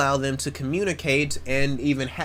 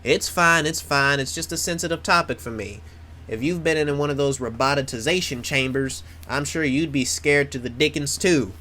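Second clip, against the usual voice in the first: lightly voiced Southern country accent; terrible country accent. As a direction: do a bad folksy country accent. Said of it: "That's a terrible country accent".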